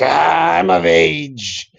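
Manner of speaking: high, slow put-on girlish voice; a hammed-up girl posing for a selfie; mock teenage girl. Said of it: "Willem Dafoe playing a teenage girl".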